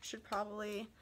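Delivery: out of breath from stairs; winded from running downstairs. Real, not acted. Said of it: "Sorry, I'm out of breath".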